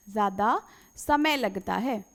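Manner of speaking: slow, each word spaced out; slow it right down so the class can write it; slow dictation of the phrase ज़्यादा समय लगता है. Shown as a demonstration. Repeats the phrase slowly for dictation.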